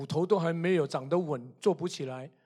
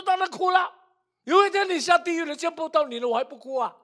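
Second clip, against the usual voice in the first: imitated crying daughter, high and urgent; tearful retort; 10 semitones higher, faster than usual. Daughter afraid of losing her mother forever, acted tearful protest. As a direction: wail it back at mum, very high-pitched. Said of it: "就哭了".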